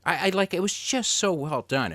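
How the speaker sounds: real amused excitement; excited laugh. Real, not acted. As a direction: gush about the story still laughing.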